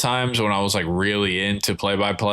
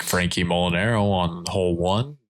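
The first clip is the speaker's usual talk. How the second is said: low-key golf broadcast voice, pitched lower; golf announcer voice; 4 semitones lower than usual. Retold or imitated. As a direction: call it like a TV golf commentator. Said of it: "slayed that little low-key voice".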